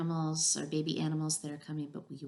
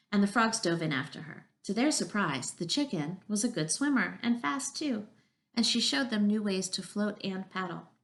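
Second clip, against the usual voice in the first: measured read-aloud with lilting emphasis; story narration; 3 semitones higher, 4 dB louder than usual. A narrator's reading. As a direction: read a picture book to young children. Reads a picture book aloud.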